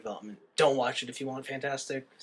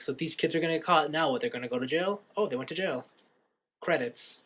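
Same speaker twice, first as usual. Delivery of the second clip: bored viewer; 5 dB quieter than usual. Retold or imitated. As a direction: run through it like an unimpressed viewer. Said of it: "then you're kinda bored with it".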